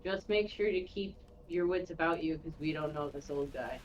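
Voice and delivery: mild, hushed word of caution; lightly acted whisper, softening toward the end; delicate whisper. Len warning Todd about the old guy, understated whisper. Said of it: "very delicately whisper in his ear".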